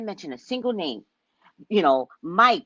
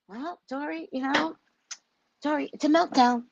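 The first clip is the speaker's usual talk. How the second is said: higher, childish mock of the minister; mocking a childish official; 6 semitones higher, 4 dB quieter than usual. Mimicking Buttigieg as her eight-year-old grandson. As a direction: sound like a little boy explaining. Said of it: "You know how he sounded like? My eight-year-old grandson".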